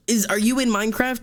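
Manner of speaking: normal talking voice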